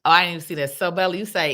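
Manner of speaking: ordinary talk, nothing marked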